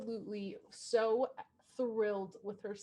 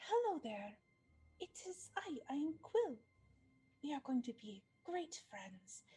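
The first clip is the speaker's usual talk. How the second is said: hushed, gentle speech; 3 semitones higher, 9 dB quieter than usual. Playing a character approaching a bird to get its attention, talking softly. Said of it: "still talking softly".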